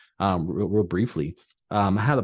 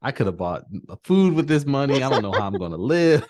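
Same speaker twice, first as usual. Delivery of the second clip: laughing mock panic; 2 semitones higher than usual. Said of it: "You're like".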